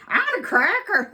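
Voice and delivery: high bird squawk; squeaky parrot line; parrot puppet voice. Acted. Parrot puppet wants cracker.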